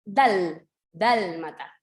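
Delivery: DÁL-mata, stressing the first syllable. Shown as a demonstration. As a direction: stretch out and stress the "dal" in "dálmata". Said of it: "Solamente se carga en". (acento marcado en "dal" de "dálmata")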